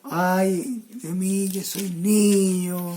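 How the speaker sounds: slow, drawn-out mock lament; imitated woeful protest, dragged out; retold lament. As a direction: stretch out each word like a reluctant plea. Acting out Jeremiah's lament.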